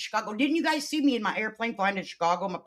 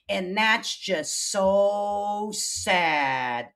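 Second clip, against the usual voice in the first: mock pity; much slower than usual. Reading a commenter's words mockingly.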